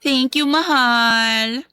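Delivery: slow, drawn-out sugary thanks; sugary fake sweetness. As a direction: lay the fake sweetness on thick for the husband. Stepmother sweet to husband. (pekeng malambing na pasasalamat)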